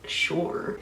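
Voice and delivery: low-key, grudging "sure"; mildly unwilling; reluctant agreement. Retold or imitated. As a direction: agree reluctantly, a little under the breath. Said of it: "which I very reluctantly was like".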